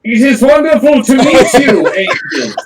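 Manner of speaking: Nirvana dialect. Acted. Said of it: "that's the Nirvana dialect".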